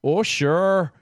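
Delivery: Minnesota "Oh, sure", long rounded o; folksy Upper Midwest Minnesota voice; cheery Minnesota nice accent. Pretend. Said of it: "That was my Minnesota accent".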